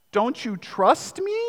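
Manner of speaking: soft, slow pleading with a pout; puppy-dog plea. Retold or imitated. Husband pleading with his wife, pouty and soft. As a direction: beg sweetly like a sulking puppy. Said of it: "big puppy dog eyes and the pouty lip".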